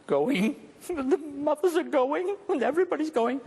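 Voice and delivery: a hammed-up chorus of mothers cooing; mock crowd aww. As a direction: imitate a whole audience melting. Imitates the audience's moved reaction.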